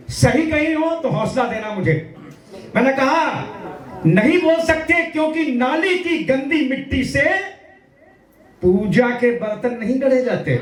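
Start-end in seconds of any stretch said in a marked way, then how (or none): 4.1-10.5 angry retort. Retold or imitated. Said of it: "दो पंक्तियां गुस्से में कहीं, हौसले से कहीं".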